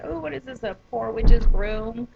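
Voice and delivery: imitating a brother's teasing jibe with a big fake ha-ha; hammed-up mocking question, loud and drawn out on the punchline; mock laughing. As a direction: tease with a put-on, spelled-out laugh. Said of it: "he's just laughing. He's like".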